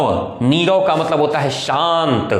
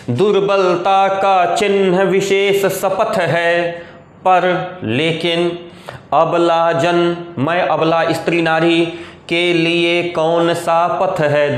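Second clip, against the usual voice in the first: slow, measured verse recitation; poem recitation; slower than usual. Acted. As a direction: recite the verse with drawn-out syllables. (धीमा, खिंचा हुआ कविता-पाठ)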